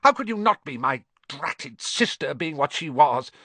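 high, loud, indignant outburst; shrieking aunt. A narrator's reading. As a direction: shriek it, then rail on indignantly. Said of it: "shrieked Aunt Petunia suddenly".

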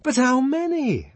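high, loud, scornful question; contemptuous. A narrator's reading. Fanny doubting Lenina has tried, contemptuous. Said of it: "shrugging her shoulders contemptuously".

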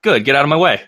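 mock gruff, teasing; joking rudeness. American answering the apology with teasing rudeness. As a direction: play it as a joke brush-off. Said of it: "Like, jokingly".

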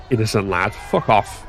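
scoffing repeat of his words; mock the phrase back at him; scornful echo. Heckler throwing the foreman's words back, scornful. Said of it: "came one shout".

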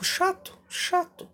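high, drawn-out whiny "chato"; bored mock whine. Mocking bored dismissal.

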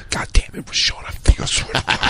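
harsh unvoiced yell-whisper. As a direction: shout in a whisper so the library can't hear. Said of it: "I like yell whispering".

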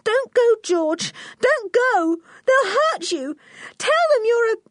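put-on very high, frantic child's plea; crying little girl begging; tearful pleading. A narrator's reading. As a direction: plead in a loud, high, panicky voice. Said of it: "Anne began to cry".

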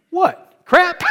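high, loud incredulous what, crap with a laugh; shocked disbelief. Retold or imitated. Told not to swear, he answers in shocked high disbelief. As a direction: squeak it out, baffled he'd object. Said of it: "I was like".

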